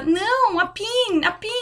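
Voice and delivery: a Kiwi customer asking again for a pen; insisting customer. Retold or imitated. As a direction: repeat "a pin" to make her understand.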